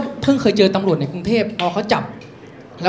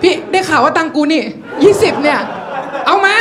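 raised pitch, pointed protest; mock indignant demand; 4 semitones higher than usual. Arguing over change from twenty baht, indignant.

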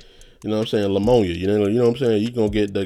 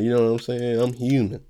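nasal voice. Real, not acted. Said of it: "I'm sounding real nasally".

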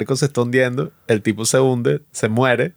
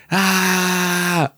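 retold scream; 7 semitones higher than usual. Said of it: "yo en ese momento grité".

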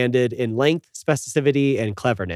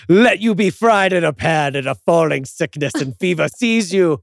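mock curse; 3 semitones higher than usual. Acted curse at oat milk barista.

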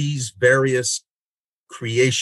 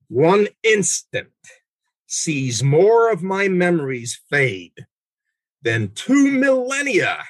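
rapt poem reading. Acted. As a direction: let each line hang in wonder. Reads Dante aloud.

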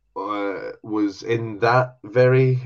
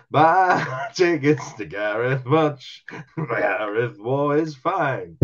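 laughing plug; 2 semitones higher, much slower than usual. Pretend.

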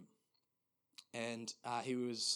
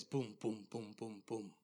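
imitated marching boom; 2 semitones lower, 3 dB quieter than usual. Pastor retells footsteps nearing in heaven, measured booms. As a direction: sound out approaching footsteps, steadily. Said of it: "he heard this just marching".

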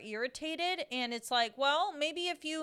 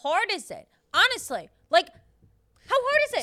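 higher and louder, slowing on hard; exasperated rant; 5 semitones higher, 6 dB louder than usual. Real, not acted. Ranting about customers on phones, exasperated. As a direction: demand it in disbelief.

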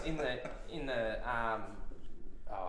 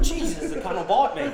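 laughing mock shock; 8 semitones higher, 7 dB louder than usual. Teller quoting own shock.

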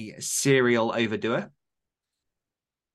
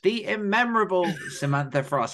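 laughing echo; 7 semitones higher than usual. Acted. Echoing with a laugh.

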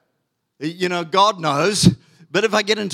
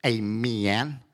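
put-on southern American accent; 6 semitones lower than usual. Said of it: "like he says it".

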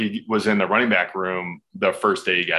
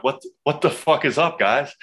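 pitched-up cocky hello as he barges in; brash greeting; 6 semitones higher than usual. Retold or imitated. Player bursting into coach's meeting to impress Marshawn, pitched-up cocky greeting. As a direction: bust in like you own the room.

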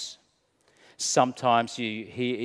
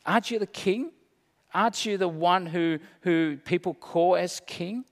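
higher, sneering taunt; mock him as a fake king; jeering; 4 semitones higher than usual. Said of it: "Scorning, jeering".

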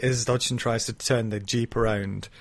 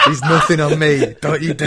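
Malcolm Tucker-style rant; 5 semitones higher, 8 dB louder than usual. Retold or imitated. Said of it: "a bit Malcolm Tuckerish".

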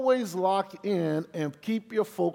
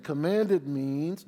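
slow, weighty "Commanded" drawn out; stress on commanded; much slower than usual. Shown as a demonstration. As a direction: lean into "Commanded" slowly. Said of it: "notice he didn't demand".

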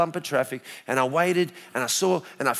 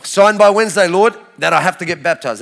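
urgent demand; 7 dB louder than usual. Retold or imitated. Retold urgent prayer demand.

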